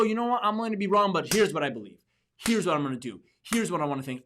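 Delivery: firm, emphatic declaration, settling as it goes; acted decisiveness. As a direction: cut through the dithering with conviction. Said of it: "I'd rather be definite".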